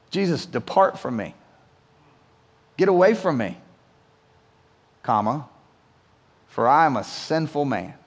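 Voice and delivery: low, hushed, pulling away in fear; awed plea. Retold or imitated. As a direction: Peter begging Jesus to go, ashamed and quiet. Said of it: "And Peter's reaction".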